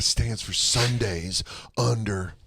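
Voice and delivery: slow, stretched-out words; mock-profound slow delivery; slow acronym impression. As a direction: drag out each word of the acronym.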